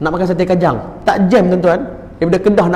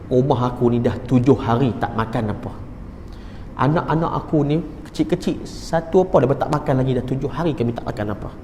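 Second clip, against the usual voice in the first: retold hushed confession; 2 semitones lower, 7 dB quieter than usual. Neighbour confesses her children are starving.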